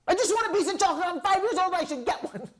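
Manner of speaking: put-on high, fast little boy's plea; little kid voice. Child begging his mom in a high little voice. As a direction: whine it like a five-year-old after candy.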